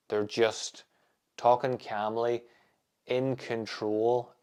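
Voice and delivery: slow, calm radio voice, unhurried; late night DJ voice. Shown as a demonstration. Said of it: "your late night F M D J voice".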